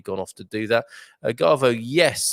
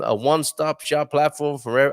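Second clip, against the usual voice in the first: attempted Californian accent, a bit louder; 5 semitones higher, 4 dB louder than usual. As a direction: give the quote a quick Californian accent try. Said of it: "I'm trying to do a Californian accent".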